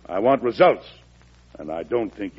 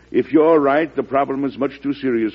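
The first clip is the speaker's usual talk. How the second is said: higher and louder on the condition; sudden raised emphasis; emphatic; 6 semitones higher, 4 dB louder than usual. Acted. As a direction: press hard on the if. President weighs the senator's warning.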